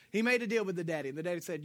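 ordinary talk

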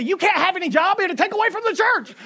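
a frantic, high protest; worked-up wife. Retold or imitated. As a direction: play the overwhelmed wife. Contradictory demand the next day.

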